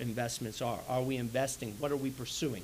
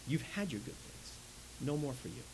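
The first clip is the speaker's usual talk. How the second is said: hard news; 7 dB quieter than usual. Retold or imitated. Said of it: "Abraham breaks the hard news to him".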